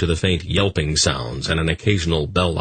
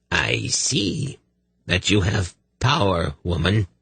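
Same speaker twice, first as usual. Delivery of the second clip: threatening; 3 semitones higher, slower than usual. Acted. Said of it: "his voice filled with an unspoken threat".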